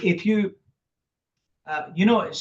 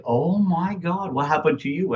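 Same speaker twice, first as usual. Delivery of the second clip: shocked onlooker; 4 semitones higher than usual. Retold or imitated. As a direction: stretch it out in mock shock. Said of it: "people look at me and they said".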